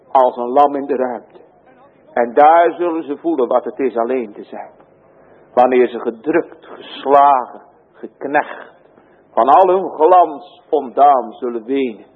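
usual speaking voice

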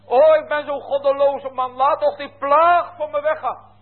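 high, loud, desperate begging; pleading Pharaoh. Acted. Pharaoh begs Moses to pray, high desperate plea. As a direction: beg like a king who is terrified of the plagues. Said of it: "dan zegt hij".

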